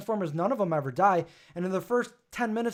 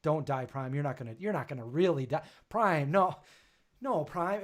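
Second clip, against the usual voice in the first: mild pleading; 2 semitones lower, 5 dB quieter than usual. Retold or imitated. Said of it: "I'm like".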